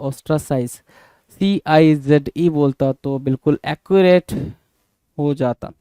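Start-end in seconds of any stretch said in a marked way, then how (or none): 0.1-0.8 slow correct word. Shown as a demonstration. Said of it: "सीआईजेडई बोलता तो सही".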